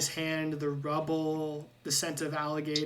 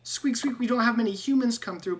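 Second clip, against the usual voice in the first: much higher squeaky rat voice, squeaks between words; squeaky rat Ratrick; 6 semitones higher, 4 dB louder than usual. Acted. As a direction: chatter like an eager little rat. GM voicing the rat guide.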